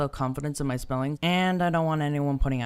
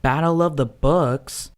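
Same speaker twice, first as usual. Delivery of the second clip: confused question; slower than usual. Acted. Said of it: "repeated with rising intensity".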